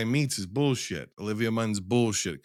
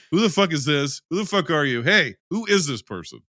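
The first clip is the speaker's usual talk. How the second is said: higher, indignant acted confrontation; hammed-up jealous challenge, pitched up; mock freak-out; 5 semitones higher, 4 dB louder than usual. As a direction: demand answers in pretend outrage. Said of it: "I'm gonna freak out".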